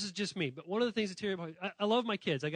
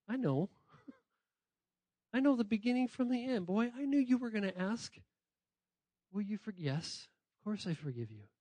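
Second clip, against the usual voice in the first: gentle Jesus; 4 dB quieter than usual. Acted.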